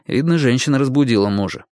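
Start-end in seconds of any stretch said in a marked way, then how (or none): none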